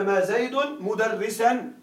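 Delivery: slow, careful model sentence read for the class; teacher slowly reading the grammar example aloud. Shown as a demonstration. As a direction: spell out the example word by word, slowly. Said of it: "فيقولون".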